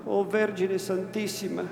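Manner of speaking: begging for mercy. Acted. Lucia begs the Innominato to let her go to her mother, pleading.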